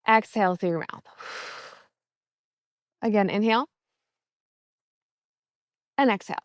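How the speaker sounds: calm, measured meditation voice with long pauses; guided meditation. Acted. Coach easing listeners into a mindful walk, guided meditation. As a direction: guide them gently through breath and steps.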